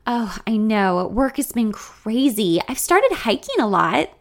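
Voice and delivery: chirpy and upbeat; unusually expressive. Acted. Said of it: "She sounds unusually expressive today".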